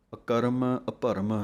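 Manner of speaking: ਅਕਰਮ ਅਭਰਮ with the ਰ slipped in fast; ਅਕਰਮ and ਅਭਰਮ, short quick ਰ, not a full ਰਾ; quick r cluster. Shown as a demonstration. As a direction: say ਅਕਰਮ, ਅਭਰਮ with the ਰ barely touched. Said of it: "ਇਹ ਜਲਦੀ ਨਾਲ ਪੜ੍ਹਨੇ ਹਨ".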